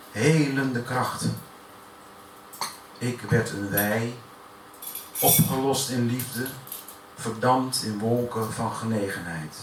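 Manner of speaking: measured, emphatic spoken-word delivery; serious poem read out to an audience; poetry recitation. Acted. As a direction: recite it line by line with deliberate pauses.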